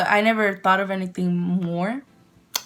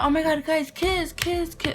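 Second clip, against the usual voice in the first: high, mock-excited chanting; egging on; 8 semitones higher than usual. Classmates urging the couple to kiss, mock squealing. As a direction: imitate gushing friends in a high voice.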